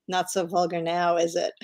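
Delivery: understated, casual retelling of a retort; mock-casual quoted comeback. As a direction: deliver the comeback lightly, as if offhand. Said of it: "Elizabeth Taylor just casually says".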